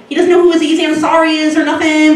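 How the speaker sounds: a breezy, careless young guy, voiced lightly; assistant impression. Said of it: "he kinda talks like this".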